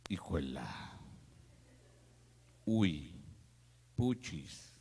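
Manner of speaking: low, muttered mock dismay; shock at the bill. Diner seeing the restaurant bill, low mock dismay.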